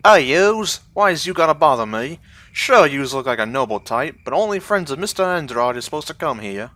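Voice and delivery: loud, gruff Southern dock guard; thug southern accent. Acted. Estate guard shooing off a noble, loud Southern accent. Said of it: "for my southern accent".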